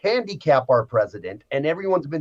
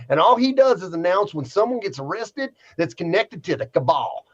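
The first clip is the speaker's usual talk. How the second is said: lightly put-on Southern accent; mock Southern reading voice. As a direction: read it out with a touch of Southern twang. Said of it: "I gotta throw an accent on this one".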